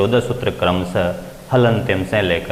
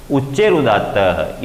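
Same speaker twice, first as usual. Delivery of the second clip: slow sutra recitation; 2 semitones higher, slower than usual. Shown as a demonstration. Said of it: "इसका अर्थ है".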